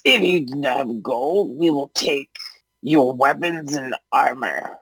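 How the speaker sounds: lightly voiced goblin boss; a hint of goblin menace, slowing at the end; demanding goblin. Goblin leader demands weapons as payment, mildly menacing voice.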